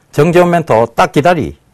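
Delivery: Korean Gyeongsang regional accent, laid on thick. Speaker says he has started catching up, addressing a mentor in Gyeongsang dialect. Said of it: "경상도 사투리로 이렇게 얘기를 합니다".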